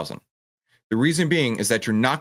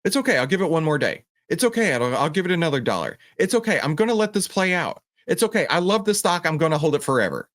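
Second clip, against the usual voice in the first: high, sing-song voice of a trader in denial; mock self-reassurance; 8 semitones higher than usual. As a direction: parody a trader talking himself into holding a loser. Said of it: "You can hear the passion in my voice".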